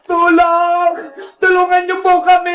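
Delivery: cry for help. Acted. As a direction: call out as a trapped child. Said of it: "Parang may sumisigaw". (pasigaw na paghingi ng saklolo)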